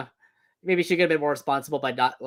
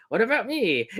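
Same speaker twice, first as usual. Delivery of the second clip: puppet voice; 6 semitones higher than usual. Retold or imitated. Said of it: "the comedic Mister Coconuts".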